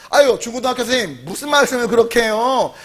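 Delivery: lightly mocked huffy teacher; playful, exasperated complaint; annoyed elementary teacher. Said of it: "누가 화가 나요?".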